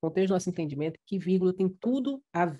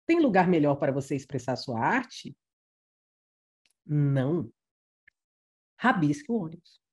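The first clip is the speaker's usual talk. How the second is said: "Tem lugar melhor para você expressar a sua arte?" asked, long pause, "Não." then "Rabisque o ônibus."; pauses change the meaning; 3 semitones lower than usual. Shown as a demonstration. Teacher reading the altered bus sign, stressing the pauses. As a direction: read it as a question, pause, then a blunt Não. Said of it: "Mas olha como é importante a pontuação".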